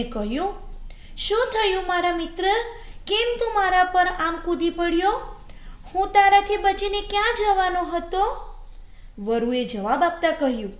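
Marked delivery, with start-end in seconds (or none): 1.2-8.5 high-pitched jackal character voice; high storybook jackal, bravely questioning; frightened jackal plucking up courage. Acted. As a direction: put on a small, high voice, holding steady before the attacker. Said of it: "ડરી ગયેલા શિયાળે હિંમત ભેગી કરીને".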